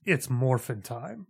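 very slow, dead flat delivery; emotionless delivery. Retold or imitated. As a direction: drag it out with zero feeling. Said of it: "the most emotionless line".

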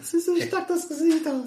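high squeaky laughing voice. Real, not acted.

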